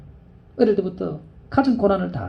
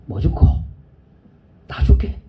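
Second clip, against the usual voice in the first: Busan dialect. Retold or imitated. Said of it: "부산 사투리로 말씀".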